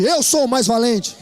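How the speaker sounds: slow, firm declaration of courage; slow, steady, confident boast; brave voice. Shown as a demonstration. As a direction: say it like the bravest one in the room. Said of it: "Mas diz com voz de valente".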